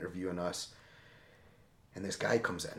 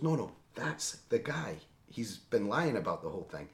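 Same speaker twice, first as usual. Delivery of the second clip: Yuri angry; 2 semitones higher than usual. Retold or imitated. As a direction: play the translator accusing the man. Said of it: "angry and animated".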